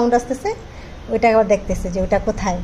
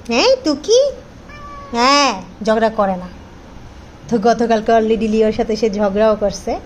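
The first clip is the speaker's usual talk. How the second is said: pet talk. Real, not acted. Asking cat if calm. (বিড়ালকে আদুরে গলায় শান্ত করা)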